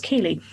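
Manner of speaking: Keighley without any th, "Kee-lee". Shown as a demonstration. Host gives her own guess, Keighley as Kee-lee. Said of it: "I think it should be pronounced".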